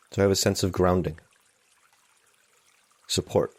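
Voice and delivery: calm, unhurried meditation guide; guided meditation. Real, not acted. Meditation teacher settling listeners into a morning sitting, calm guided meditation. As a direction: lead them gently, with long silences between phrases.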